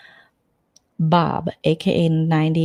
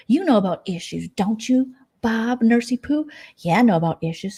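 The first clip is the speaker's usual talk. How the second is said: mock bickering; 5 semitones higher than usual. Acted quarrel continues.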